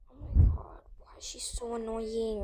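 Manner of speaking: soft, exasperated mutter; muttered aside. Acted. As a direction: grumble it under your breath. Grumbling aside about girlfriend.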